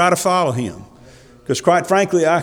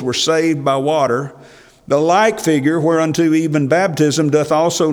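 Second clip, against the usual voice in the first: scripture reading. Acted. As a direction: read the verses with weight. Reads scripture aloud.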